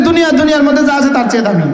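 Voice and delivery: preacher leading the congregation, loud and high. Shown as a demonstration. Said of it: "আবার উচ্চারণ করেন, উচ্চারণ আবার করেন".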